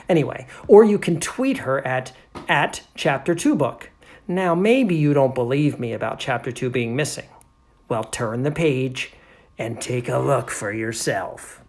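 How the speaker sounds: emphatic read-aloud, slowing into the invitation; animated story narrator. Acted. Narrator invites doubters to turn the page, animated storytelling. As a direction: draw the listeners in. Reads the narrator's appeal to readers.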